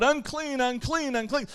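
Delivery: lightly mock the leper's warning cry; a restrained, half-voiced unclean call; mild called-out warning. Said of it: "he was supposed to yell out".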